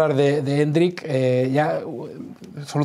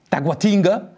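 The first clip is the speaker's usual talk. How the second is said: high, put-on Brazilian accent; 5 semitones higher, slower than usual. Presenter joking about non-locals, Brazilian accent. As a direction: play the local saying the place name, Brazilian accent. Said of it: "que no somos de".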